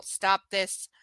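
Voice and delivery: unvoiced whisper; whispered aside. Reader reacting to the story, whispered aside. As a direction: murmur it to herself.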